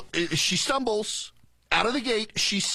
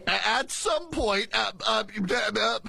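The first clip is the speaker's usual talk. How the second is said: mock stumbling. Host mimicking her fumbled border answer, mock stumbling. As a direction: stall on the words, then stutter on empty uhs. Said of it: "she stumbles out of the gate".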